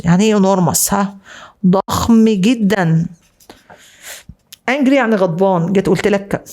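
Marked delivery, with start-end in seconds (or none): 1.7-3.1 "ضخم جدًا" said very slowly, each word stretched; drawn-out emphasis. Shown as a demonstration. Teacher translating enormous for students, drawn-out emphasis.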